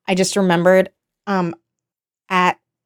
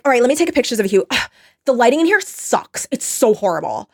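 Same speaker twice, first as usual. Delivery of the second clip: annoying influencer; 4 semitones higher than usual. Retold or imitated. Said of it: "everything she's saying is so fucking annoying".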